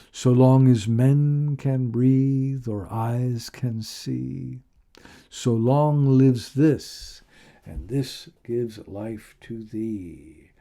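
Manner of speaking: slow, fading final couplet; slow poem ending. Acted. Closing couplet of the recitation.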